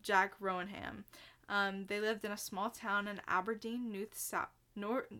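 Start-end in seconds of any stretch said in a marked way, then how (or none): 0.0-1.1 Jack Rohan drawn out slowly in a mock Australian accent; Australian accent, slow and careful. Shown as a demonstration. Host retries the name in an Australian accent, slow and deliberate. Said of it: "picture me doing a perfect Australian accent".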